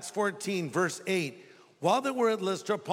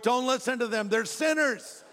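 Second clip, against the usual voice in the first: Paul protesting; 5 semitones higher than usual. Acted. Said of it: "Paul says to the Lord".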